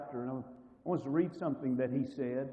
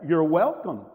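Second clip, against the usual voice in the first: sarcastic nice; 9 dB louder, slower than usual. Retold or imitated. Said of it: "you just very nicely say".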